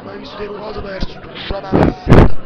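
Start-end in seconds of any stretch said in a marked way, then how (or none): 1.2-2.3 enraged chef screaming. Acted. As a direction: scream the insult at full force. (urlo rabbioso)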